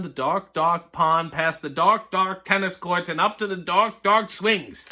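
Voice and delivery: hammed-up spooky emphasis on every dark. Storyteller milking the dark for spooky effect. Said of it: "We get it. It's nighttime. Everything is very dark".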